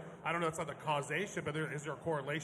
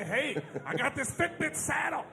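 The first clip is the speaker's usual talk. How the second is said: high, drawn-out hawker's call; mock sales pitch; 8 semitones higher than usual. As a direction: pitch it high and slow, like hawking a novelty. Acts out pitching to rich horse owner.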